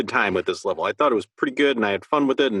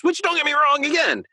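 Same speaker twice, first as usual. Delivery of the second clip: playful high aside; 14 semitones higher than usual. Acted. Playful aside about killing demons.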